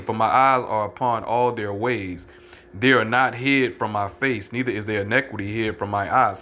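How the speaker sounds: measured Bible recitation; scripture reading. Acted. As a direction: lay each word of the verse down. Reads scripture aloud, slowed.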